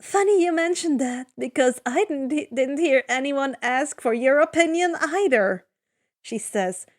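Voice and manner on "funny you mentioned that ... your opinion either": cutting, scornful comeback; venomous retort. Acted. Annabeth retorts to Eurylochus, mild venom. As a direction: make every word drip venom. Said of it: "tone full of venom".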